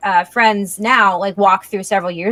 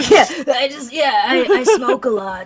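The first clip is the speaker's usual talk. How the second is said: laughing; 3 semitones higher than usual. Real, not acted. Joking she smokes a lot.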